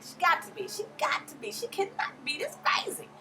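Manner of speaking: high conspiratorial whisper; whispered disbelief about Mama Joyce; whispered aside. Real, not acted. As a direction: whisper it like a secret.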